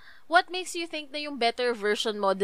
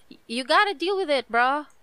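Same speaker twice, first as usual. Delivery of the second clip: casual bro voice, lightly done; a hint of a laid-back frat boy; 3 semitones higher than usual. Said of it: "I sounded like a frat boy".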